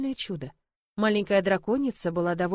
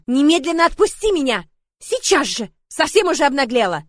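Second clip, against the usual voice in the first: loud, higher furious yell; 6 semitones higher, 8 dB louder than usual. A narrator's reading. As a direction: shout at the dragon, out of patience. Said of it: "и я заорала". (героиня орёт на дракона)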